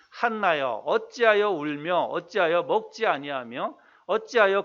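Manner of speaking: slow, measured Bible reading; scripture reading. Acted. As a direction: read the verse out slowly and formally. Reads scripture aloud. (느리고 또박또박한 성경 봉독)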